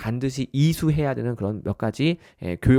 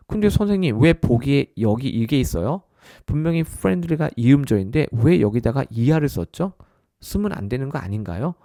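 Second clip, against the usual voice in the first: puzzled student. Acted. Student querying the teacher about the answer choices, puzzled. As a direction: raise a puzzled objection, pitched up at first.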